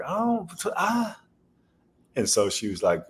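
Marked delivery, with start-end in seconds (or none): 0.1-1.2 bewildered stammer. Retold or imitated. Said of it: "I was like".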